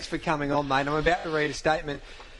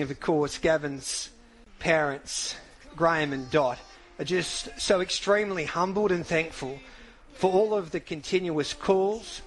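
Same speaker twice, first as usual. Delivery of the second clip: solemn statement reading. Acted. Host reads the widow's statement on air, solemn and measured.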